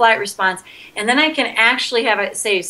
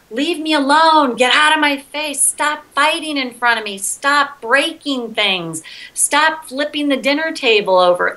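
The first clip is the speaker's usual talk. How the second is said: put-on child's tantrum rant; 5 semitones higher than usual. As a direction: let the inner child rant it out, pleading. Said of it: "I ranted it out".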